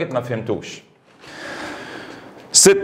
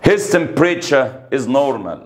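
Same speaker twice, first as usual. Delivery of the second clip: 1 slow reading; much slower than usual. Shown as a demonstration. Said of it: "teacher reads exercise slowly".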